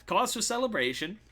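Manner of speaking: loud, high crowd-rousing voice; showy mayor. Acted. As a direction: whip the crowd up like a showman. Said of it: "He's like".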